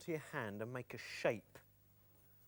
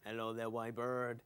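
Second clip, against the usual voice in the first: a hint of a charming lemur; lightly put-on lemur greeting; lemur puppet; 5 dB louder than usual.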